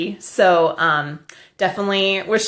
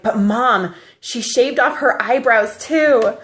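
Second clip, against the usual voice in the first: put-on little boy; 5 semitones higher, 3 dB louder, slower than usual. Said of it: "he's like".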